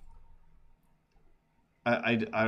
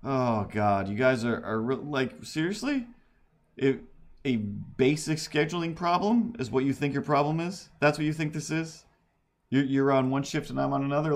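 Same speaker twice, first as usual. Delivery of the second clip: exasperated disbelief; 4 semitones higher than usual. Retold or imitated. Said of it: "I'm just like".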